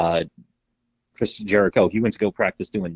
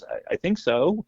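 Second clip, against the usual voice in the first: higher, slow, squeaky imitation of a dazed old wrestler; Terry Funk voice; 10 semitones higher, slower than usual. Imitating the dazed wrestler after his moonsault, higher and slow. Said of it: "a whisper with a squeak".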